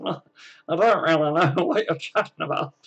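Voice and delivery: laughing through feigned ignorance; laughing denial. Real, not acted. Teased about the faces he's making, laughing denial. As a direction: deny it while chuckling.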